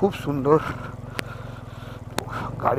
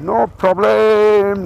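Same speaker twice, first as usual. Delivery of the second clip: high, loud cheer; excited shout; 7 semitones higher, 10 dB louder, much slower than usual. Real, not acted. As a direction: shout it out with bravado. Bravado on rough off-road.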